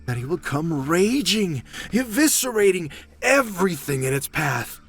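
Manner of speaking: dramatic storyteller voice; ominous tale told like a narrator. Pretend. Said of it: "I'm practicing for my narrator voice".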